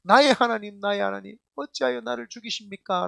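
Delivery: loud opening, then an understated plea; mildly anguished appeal to God; acted last cry. Pastor voices Jesus on the cross, restrained anguished cry. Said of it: "마지막 절규라는 그 상황에서도".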